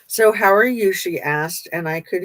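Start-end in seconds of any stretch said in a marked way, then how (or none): 0.1-0.9 lightly put-on Eastern European accent, a bit higher and louder. Psychic greeting her visitors in a light Eastern European accent. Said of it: "some sort of Eastern European accent".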